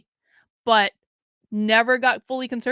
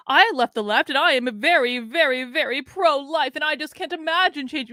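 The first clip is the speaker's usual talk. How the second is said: higher-pitched mocking quote with piled-up emphasis; mock pro-life claimant; 4 semitones higher than usual. Mimicking people who say they left the left, mocking. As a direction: imitate an overearnest online claimant, pitched up.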